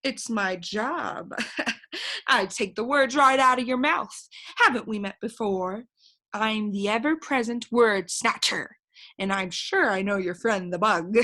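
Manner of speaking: boastful bird voice. Acted.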